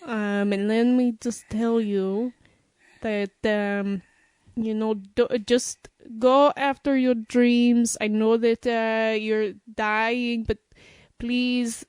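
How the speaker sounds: put-on French accent. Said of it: "French accent I could do".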